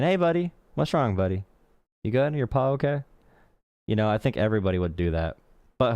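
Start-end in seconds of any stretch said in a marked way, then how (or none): 0.0-3.0 put-on higher, gentle baby-talk to a pet; talking to a dog. Checking on her hurt dog, higher tender pet talk. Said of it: "I'd be saying".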